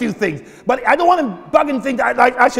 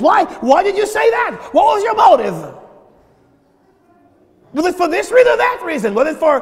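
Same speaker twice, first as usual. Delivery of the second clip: loud, searching questions; probing questions; 4 semitones higher, 4 dB louder than usual. Retold or imitated. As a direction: demand the motive, pressing hard. God questioning your motives.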